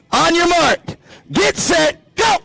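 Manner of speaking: high, drawn-out start call. Real, not acted. Announcer to gentlemen hula hoop contestants, high starting shout. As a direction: call them to the start line.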